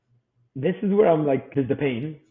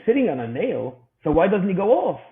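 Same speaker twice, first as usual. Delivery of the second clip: puzzled disbelief; 6 semitones higher, 5 dB louder than usual. Retold or imitated. Dad puzzled by the answer.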